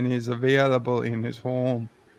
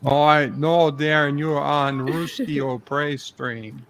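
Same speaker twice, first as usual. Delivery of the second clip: lightly put-on Russian spy accent; a hint of a Cold War Russian agent; mock Russian accent. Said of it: "crossed it with a Rusky".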